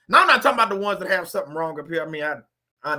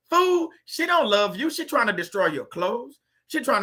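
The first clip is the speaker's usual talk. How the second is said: mock retort; 3 semitones higher than usual. Retort to a husband excusing wife.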